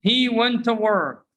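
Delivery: weak "tuh" in "went to"; reduced pronunciation. Shown as a demonstration. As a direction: blend "went to" for students to repeat.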